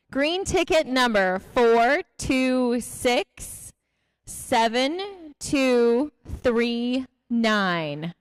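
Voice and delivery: slow, deliberate number reading; raffle caller. Real, not acted. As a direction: read each digit out slowly. Reads winning number slowly.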